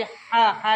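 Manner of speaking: "ہا" with tight pharyngeal h; big ha. Shown as a demonstration. Teacher showing the sound, big ha. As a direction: squeeze the h of "ہا" from mid-throat. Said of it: "بڑی ہا کی جو آواز ہے".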